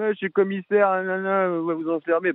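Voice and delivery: sneering "nanana" mimicry; mocking officer imitation. Suspect aping the commissioner's threats to lock him up, mocking. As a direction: parrot the authority's threat with contempt. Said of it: "parce qu'il est gendarme".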